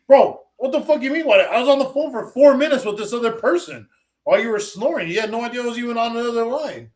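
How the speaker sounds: mock outrage with a laugh; exasperated rant. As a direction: vent it at him, disbelieving. Annoyed retelling of phone call.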